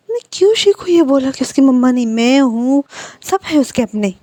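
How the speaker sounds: angry uncle scolding his niece over her cruel words. Acted. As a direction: tell the child off hard. Uncle scolds girl for hurting Shi.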